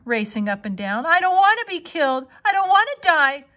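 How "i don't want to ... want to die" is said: high, loud panicked pleading; frightened pleading. Acted. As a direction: plead with her in terror. Frightened pig pleading with spider.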